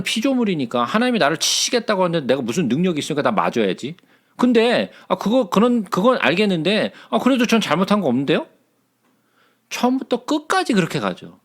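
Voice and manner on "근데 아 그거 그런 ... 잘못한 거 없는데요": Job's indignant complaint to God, pleading innocence; protesting innocence. Retold or imitated. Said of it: "죄 없음을 계속해서 항변해요".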